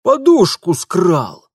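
high, loud outraged shopkeeper; indignant shopkeeper. Acted. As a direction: spit out the insult. Shopkeeper accuses. (лавочник негодует)

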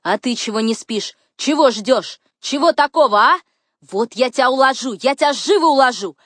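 loud, high, building agitation; excited scolding. A narrator's reading. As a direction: pounce with rising, teasing threats. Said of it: "возбуждённая".

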